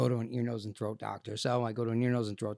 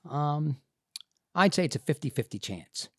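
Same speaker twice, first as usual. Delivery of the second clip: hedging doctor; 7 semitones higher, slower than usual. Retold or imitated. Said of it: "And he goes".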